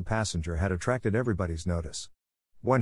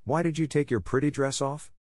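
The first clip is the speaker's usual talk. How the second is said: puzzled; 6 semitones higher than usual. A narrator's reading. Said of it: "asked Brigitte".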